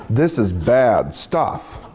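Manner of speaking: "bad" stretched slow and heavy; drawn-out emphasis. Shown as a demonstration. Storyteller describing the stinking box, slow emphatic "bad". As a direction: drag out "bad stuff" with weight. Storyteller stressing how awful it is.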